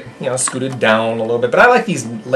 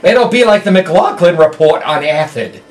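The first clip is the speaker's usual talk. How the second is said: Charles Nelson Riley impression; 2 semitones higher than usual. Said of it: "You sound like Charles Nelson Riley".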